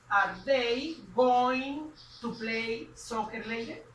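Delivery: stretched out at x0.5 pace; slow teacher question; slow model question. Shown as a demonstration. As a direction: read the question slowly for learners. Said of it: "Diríamos".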